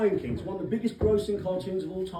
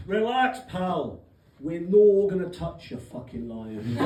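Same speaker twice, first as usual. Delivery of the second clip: put-on light Glaswegian accent; a touch of Glaswegian patter; 4 dB louder, slower than usual. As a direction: play a Glaswegian guy telling someone off. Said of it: "one of the Glaswegian guys goes".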